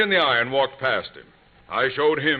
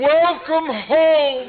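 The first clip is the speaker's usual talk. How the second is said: slow, much higher, loud grand welcome; grandly drawn-out welcome; proud announcement; 11 semitones higher, 6 dB louder, much slower than usual. Acted. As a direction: announce the farm like a triumph. Arriving at the farm.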